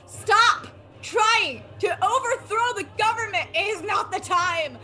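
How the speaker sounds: mock-stern reprimand tipping into laughter; exasperated scolding. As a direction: hit each word, scolding a friend. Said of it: "Davina just grabs Marcus and just goes".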